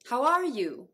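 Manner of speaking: "are" in "How are you" with full vowel; fully pronounced ARE. Shown as a demonstration. Teacher recapping three variants, "are" in "How are you" said fully. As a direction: stress a clear, open "are". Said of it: "という三種類ですね".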